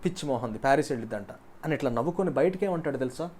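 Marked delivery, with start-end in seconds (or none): 0.0-1.3 low, quick sneer at her naive wish; playboy privately mocking his girlfriend's wish; mocking inner laugh. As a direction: scoff to yourself, lower and fast. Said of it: "మనసులో నవ్వుకుంటాడు".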